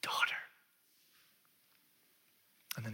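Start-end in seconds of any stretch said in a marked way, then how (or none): 0.0-0.4 softly spoken, tender; soft, unreproachful voice; gentle, no reprimand. Acted. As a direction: address her gently. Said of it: "Does that sound like a reprimand".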